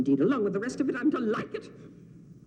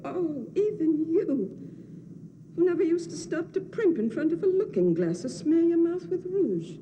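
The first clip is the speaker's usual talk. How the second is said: tearful scolding; 8 semitones higher than usual. Acted.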